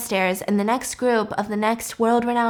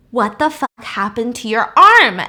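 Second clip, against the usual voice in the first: retold shock, louder on the key words; freaking out; 6 dB louder than usual. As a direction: act out a startled, alarmed demand. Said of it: "And so he freaks out".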